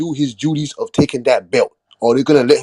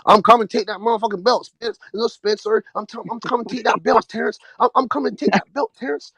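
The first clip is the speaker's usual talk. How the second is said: higher, hammed-up challenger's boast, half-swallowed; mock Errol Spence boast; 5 semitones higher, 3 dB quieter than usual. Host mimicking Spence calling out Terrence, mock boast. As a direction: mimic a fighter taunting his rival, pitched up. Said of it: "Errol Spence keeps to his word of".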